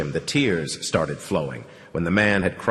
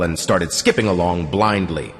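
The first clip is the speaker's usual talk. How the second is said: usual speaking voice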